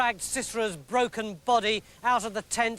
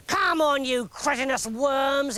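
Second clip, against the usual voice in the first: sharp commanding shout, then slower; 4 semitones higher, slower than usual. Acted. General yelling at his men in the mud, angry shout. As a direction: bark orders at the stuck troops. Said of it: "he shouted".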